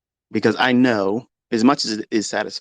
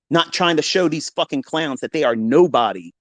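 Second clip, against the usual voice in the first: ordinary talk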